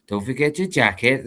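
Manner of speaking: lightly put-on Welsh accent. Recalling a saying for doing the accent, mild Welsh accent. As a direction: attempt a Welsh lilt. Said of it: "try to do the accent".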